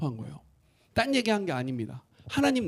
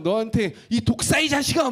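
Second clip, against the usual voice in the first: mock rebuke; 4 semitones higher, 3 dB louder than usual. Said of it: "막 이렇게 얘기하고".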